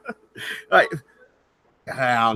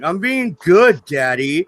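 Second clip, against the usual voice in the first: lightly voiced little girl, high and stretched; imitated young daughter; 6 semitones higher, slower than usual. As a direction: plead innocence as a small child, lightly mimicked. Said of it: "my daughter's like".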